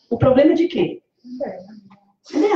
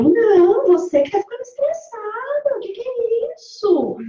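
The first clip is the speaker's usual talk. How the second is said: higher, indignant snap back; defensive retort; 10 semitones higher than usual. Acted. Speaker acting a defensive person in a spat, indignant. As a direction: throw the blame back, offended.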